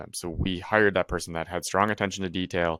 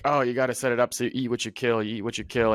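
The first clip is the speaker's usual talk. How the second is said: lightly mimicked chorus of advice, pitched up; mock eager advice-giver, lightly voiced; imitating everyone's advice; 4 semitones higher than usual. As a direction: parrot the stock advice a little higher. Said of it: "everyone was like".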